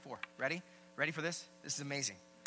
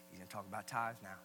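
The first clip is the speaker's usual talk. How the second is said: imagined listener; 5 semitones lower than usual. Acted. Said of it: "some of you are like".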